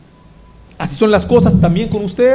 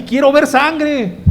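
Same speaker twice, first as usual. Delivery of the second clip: high, slow fan yell for blood; bloodthirsty yell; 7 semitones higher, much slower than usual. Retold or imitated. Wrestling crowd yelling for blood, slow high bloodthirsty yell. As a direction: drag it out like a crazed fan. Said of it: "la gente grita así".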